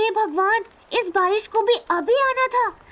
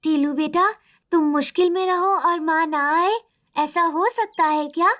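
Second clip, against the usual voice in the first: much lower, soothing motherly ghost voice; gentle mother spirit; 5 semitones lower than usual. Acted. Mother's spirit comforts son. (माँ की आत्मा, गहरी और ममता भरी आवाज़ में)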